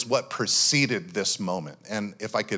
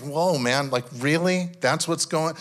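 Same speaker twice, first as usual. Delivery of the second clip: mock dramatic; 3 semitones higher than usual. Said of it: "a little bit dramatic in prayer".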